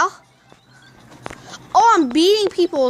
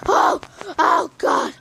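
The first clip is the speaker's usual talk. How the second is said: loud, sudden yelps of delight; excited cry; 3 semitones higher, 4 dB louder, slower than usual. Real, not acted. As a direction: shout out in real excitement. Passing a high score.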